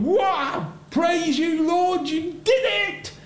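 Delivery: ironic, lightly hammed jubilation; mock joyful praise. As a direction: play the happy prophet he never was. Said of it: "Was Jonah going".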